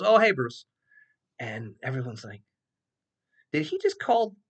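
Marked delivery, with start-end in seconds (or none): 0.0-0.7 dean's greeting. Retold or imitated. Dean greeting him. 3.5-4.4 mock shock. Students shocked at first name.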